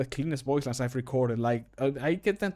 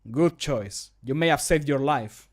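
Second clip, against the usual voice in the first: mildly scolding, slightly more deliberate; a bit scolding; 5 dB louder, slower than usual. Shown as a demonstration. Guard line to someone arrested, a bit scolding. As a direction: scold lightly, giving each word a little more time. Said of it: "That's a bit more scolding".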